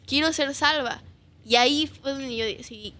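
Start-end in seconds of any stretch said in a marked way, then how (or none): 0.0-1.0 put-on childish pleading. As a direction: replay the child begging not to stay. Retold child pleading to father.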